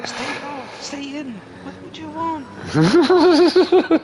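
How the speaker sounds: mock-frustrated shout at the cats; yelling at cats. Imitating owner yelling at cats.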